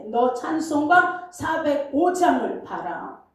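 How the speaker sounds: the same command at normal pace and level, as if spoken right next to him; voice close beside. Retold or imitated. God speaking right beside the pastor, close and plain. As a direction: say it like someone at your side. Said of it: "내 옆에서 지금 얘기하시는 것 같아".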